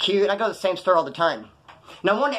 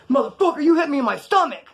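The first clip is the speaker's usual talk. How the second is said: mock outrage; 10 semitones higher, 5 dB louder than usual. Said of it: "he's like".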